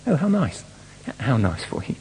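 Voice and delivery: pat them on the head with it; patronising. Retold or imitated. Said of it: "a patronising smile and the comment".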